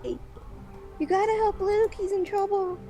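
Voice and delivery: tiny high squeaky fairy voice; a tiny voice calling for help; pixie. Acted. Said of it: "a tiny voice".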